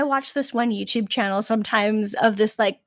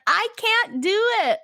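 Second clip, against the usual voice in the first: laughing quote; 8 semitones higher than usual. Retold or imitated. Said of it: "And she's like".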